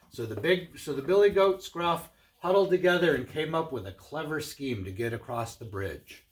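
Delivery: lively, projected read-aloud voice; animated storyteller; storybook narration. A narrator's reading. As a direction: read it like a picture book to children. Reads a tale to children.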